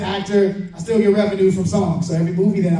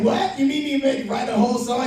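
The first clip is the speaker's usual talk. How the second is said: surprised; 7 semitones higher than usual. Retold or imitated. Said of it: "And I was like".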